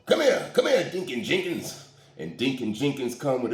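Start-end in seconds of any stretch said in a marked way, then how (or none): 0.1-1.8 calling out. Retold or imitated. Calling out deacon.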